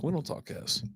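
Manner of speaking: "We don't talk S." whispered with no voice; hushed whisper. Real, not acted. Repeats line, second time hushed.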